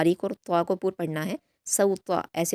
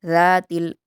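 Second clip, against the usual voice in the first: tajweed recitation; slower than usual. Shown as a demonstration. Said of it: "तीनों हरूफ को जल्दी पढ़ेंगे".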